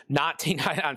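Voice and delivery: talking while choking on a raisin; choked, strained words; choking on food. Real, not acted. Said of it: "sorry, I'm choking on chocolate-covered raisins".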